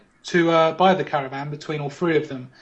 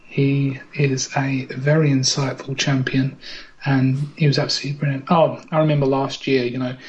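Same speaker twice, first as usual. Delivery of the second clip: low hushed live commentary; game commentator; 4 semitones lower than usual. Acted. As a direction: talk him up like a TV commentator. Mock commentary on champion.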